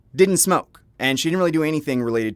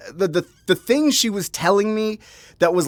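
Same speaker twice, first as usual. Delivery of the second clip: ordinary talk, nothing marked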